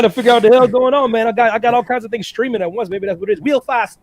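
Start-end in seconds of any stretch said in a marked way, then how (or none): 3.4-4.0 big showy stress on Stud; emphatic STUD. Acted. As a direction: announce the name, leaning hard on Stud. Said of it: "capital lowercase of stud the way you were saying that".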